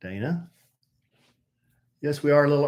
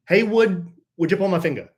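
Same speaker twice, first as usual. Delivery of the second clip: booming tipsy uncle; 7 semitones higher, 5 dB louder than usual. Acted. Third take, silly voice.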